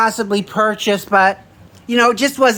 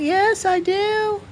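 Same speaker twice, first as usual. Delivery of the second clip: eager yes; 10 semitones higher, 5 dB quieter, much slower than usual. Retold or imitated. Eagerly accepting lunch.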